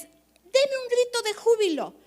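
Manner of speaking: mock worship leader. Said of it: "Es típico que en un tema de alabanza".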